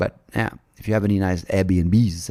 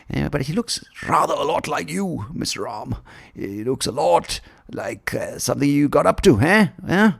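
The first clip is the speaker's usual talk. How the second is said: lightly voiced accusing wife, pitched up; suspicious wife; 7 semitones higher than usual. Sita questioning Ram about a lookalike, mock accusing. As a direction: needle him with mock suspicion.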